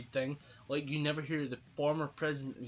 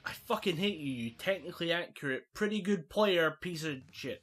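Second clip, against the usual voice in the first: mock hatred; 5 semitones higher, 3 dB louder than usual. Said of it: "you're like".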